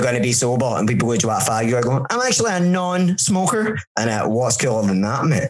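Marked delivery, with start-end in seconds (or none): 2.1-3.8 high-pitched mock boast; put-on self-important announcement; mock smugness. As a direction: show off in a silly high voice. Acting showing off as non-smoker.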